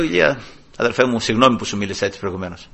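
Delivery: soft, low, quick apology; retold apology. Preacher re-enacting his apology to a co-worker, softly contrite. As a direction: say sorry humbly, voice dropped.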